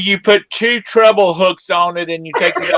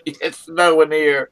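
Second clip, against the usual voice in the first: slower, spelled out for the listener; slow clear repeat; slower than usual. Real, not acted. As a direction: say it again slowly and clearly.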